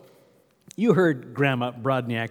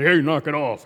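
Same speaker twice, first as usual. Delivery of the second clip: louder, playful mock scolding shout; mock call-out; 5 dB louder than usual. Crossing guard to third graders horsing around, mock call-out. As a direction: imitate a kid guard telling others off.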